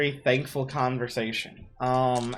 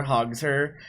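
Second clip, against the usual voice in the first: ordinary talk, nothing marked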